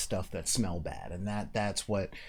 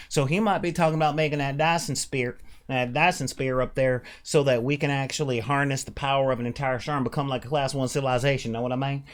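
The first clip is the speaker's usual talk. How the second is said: put-on southern accent; 2 semitones higher, 3 dB louder than usual. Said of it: "Using this accent".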